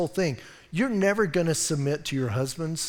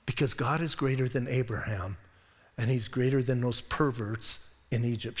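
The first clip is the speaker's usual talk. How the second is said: quiet inner resolve; 4 semitones lower, 6 dB quieter than usual. Retold or imitated. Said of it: "she's thinking".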